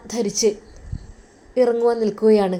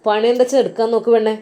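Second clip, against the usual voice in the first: louder, fast brother's rebuke; loud scolding; 5 dB louder, faster than usual. Acted. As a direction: rush the order at her, loud. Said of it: "വലിയ ശബ്ദത്തോടുകൂടി".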